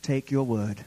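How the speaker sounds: hushed closing prayer; reverent, subdued petition. Real, not acted.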